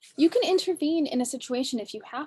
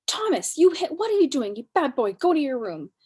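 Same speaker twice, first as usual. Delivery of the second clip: put-on sharp, louder scolding of a child; scolding parent; 4 semitones higher, 5 dB louder than usual. Shown as a demonstration. Parent scolding the child who hit, sharp and loud. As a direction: snap at the boy who hit. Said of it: "and instead of like".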